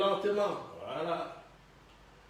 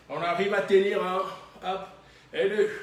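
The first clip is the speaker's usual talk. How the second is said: pushing count; 5 dB louder than usual. Real, not acted. Coach pushes class through hold.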